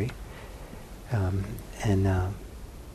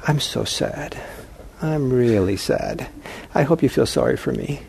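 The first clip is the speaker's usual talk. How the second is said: mock self-pity. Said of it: "I could have gotten so sad".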